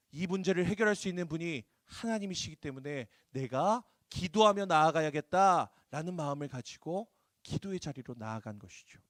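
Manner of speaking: normal talking voice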